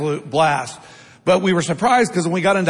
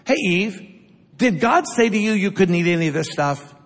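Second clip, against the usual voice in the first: sly tempter. Acted. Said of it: "listen to Satan's motive".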